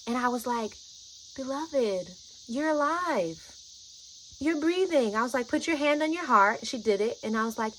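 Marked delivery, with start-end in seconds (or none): 1.4-5.1 higher, tender reassurance; speaking love. Retold or imitated. Guide calming a frightened friend, loving reassurance. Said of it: "I'm speaking in this tone". 5.5-6.7 higher, gently guiding reassurance; speaking love. Retold or imitated. Guide grounding a frightened friend, loving instruction. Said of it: "I'm speaking in this tone".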